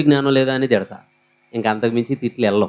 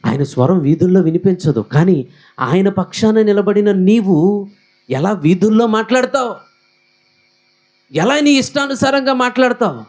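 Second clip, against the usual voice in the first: God's rebuke; 7 semitones higher than usual. Retold or imitated. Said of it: "ఆ మాటలు నా దేవుడు అంటాడు". (దేవుని గద్దింపు, మెల్లగా మొదలై పెరుగుతూ)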